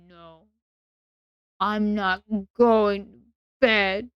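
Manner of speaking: put-on slow, whiny toddler refusing bedtime; mock sulky kid stamping their feet; lightly voiced tantrum child; child's temper tantrum. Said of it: "acted as if you were some child having a temper tantrum".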